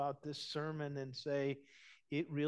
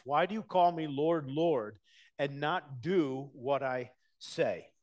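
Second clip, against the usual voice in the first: preached louder; 6 dB louder than usual. Shown as a demonstration. Preacher pressing the question on his hearers, louder. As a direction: ring out the Lord, Lord, then slow down on do. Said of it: "This is very convicting".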